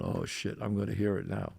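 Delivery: low, soft voice to oneself; hushed foreboding, acted out; retold dread. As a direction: drop it down like a private thought. Retold dread of wife's scolding.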